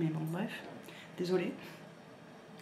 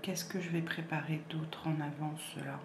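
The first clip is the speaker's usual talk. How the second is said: whispered to herself; 6 dB quieter than usual. Real, not acted. Thinking aloud to herself.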